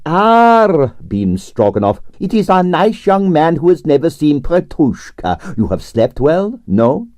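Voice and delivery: delighted Russian theatre director greeting a guest; beaming Russian impresario. Acted. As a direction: gush over the young man in a thick Russian accent. Stroganoff beams at Quill.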